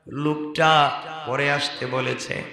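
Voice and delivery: normal talking voice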